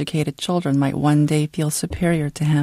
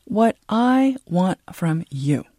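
echoing repeat; 2 semitones higher, slower than usual. Acted. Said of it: "He repeated himself".

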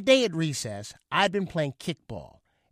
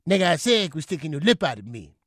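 mild scream; 4 dB louder than usual. Retold or imitated. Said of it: "Sylvester screamed".

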